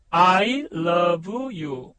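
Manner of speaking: slow showcase pronunciation. Shown as a demonstration. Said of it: "발음 좋죠?".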